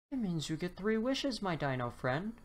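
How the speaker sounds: a hint of a sly leprechaun. Leprechaun offers the dinosaur three wishes, lightly voiced.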